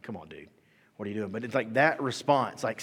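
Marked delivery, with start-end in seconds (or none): 0.0-1.3 annoyed manager. Retold or imitated. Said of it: "the manager doesn't understand".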